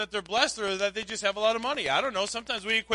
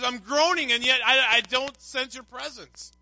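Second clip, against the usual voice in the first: higher, emphatic retold complaint; pleading lament; 4 semitones higher, 4 dB louder than usual. Psalmist tells God his absence is felt, pleading. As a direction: plead upward, slowing at the end.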